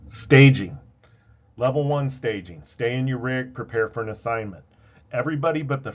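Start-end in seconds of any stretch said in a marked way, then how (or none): 0.1-4.7 loud radio announcement. Shown as a demonstration. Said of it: "staging demo".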